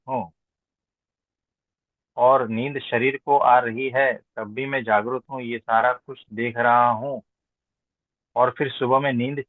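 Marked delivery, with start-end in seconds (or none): none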